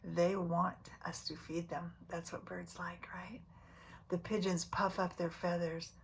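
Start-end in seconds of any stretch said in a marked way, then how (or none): 1.1-3.4 whisper. Acted. Reading to kids, hushed aside.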